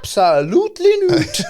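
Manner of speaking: high exaggerated protest; mock indignant. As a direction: protest in a shrill hammy way.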